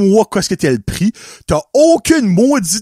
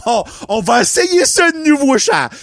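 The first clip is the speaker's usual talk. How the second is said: higher, mock-sweet talking down; mocking condescension; 7 semitones higher than usual. Old lady mocking the young clerk, condescending mock voice. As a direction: fake patience for a child. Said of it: "t'aurais probablement ri de elle comme".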